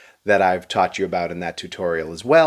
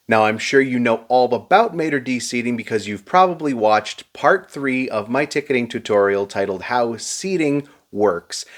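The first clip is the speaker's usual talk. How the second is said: sarcastic. Real, not acted. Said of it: "I'm being sarcastic right now".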